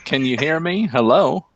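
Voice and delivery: flat recorded-message delivery; voice recording. Retold or imitated. Repeats the phone check like a voice recording. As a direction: sound like an automated voice. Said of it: "You sound like a voice recording".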